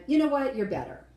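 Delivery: exasperated start, pitched high and loud, then dropping; mock frustrated judge. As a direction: imitate a judge grasping for a compliment. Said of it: "was so frustrated with the no content".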